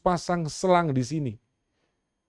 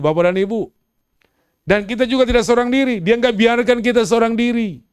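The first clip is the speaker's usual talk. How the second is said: full-force preaching; 9 semitones higher, 9 dB louder than usual. Acted. Pastor urging the church not to fear, preaching at full force. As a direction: drive every line home to the congregation.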